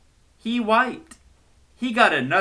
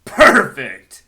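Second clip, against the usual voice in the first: pleased; 12 dB louder than usual. Acted. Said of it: "Bear said".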